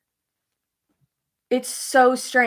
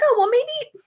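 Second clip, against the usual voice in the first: much higher mock-mom voice; imitating mom; 4 dB louder than usual. Mom suggesting a themed lamp for her grandson, high-pitched imitation. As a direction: pitch it right up as mom floating an idea. Acting out mom's hopeful suggestion.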